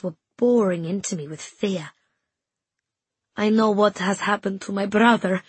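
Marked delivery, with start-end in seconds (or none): 3.4-5.4 a touch of choked tears; tense and tearful. Acted. Girl confiding her secret to a friend, tense and choked. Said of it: "tense and choked with tears".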